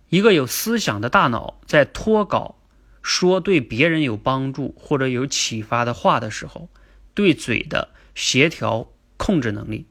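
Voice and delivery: slow, measured dictation of a definition; 慢速复述. Shown as a demonstration. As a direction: say it slowly in chunks so listeners can type it. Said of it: "把这个定义打一遍". (放慢语速，一句一顿地念定义)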